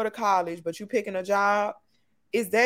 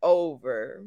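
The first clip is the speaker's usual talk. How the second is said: reassuring; 5 semitones lower, much slower than usual. Real, not acted. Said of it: "Don't cry".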